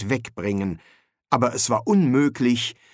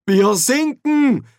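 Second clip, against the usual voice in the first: much higher, louder, slow dismay; alarmed Ponder; 13 semitones higher, 6 dB louder, slower than usual. A narrator's reading. Ponder realises the ship is sinking, slow high alarm. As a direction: let the realisation sink in. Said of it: "sagte er".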